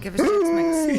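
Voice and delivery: high loud begging; loud playful demand. Pretend. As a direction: shout it up at Dad. Demanding snacks, chant.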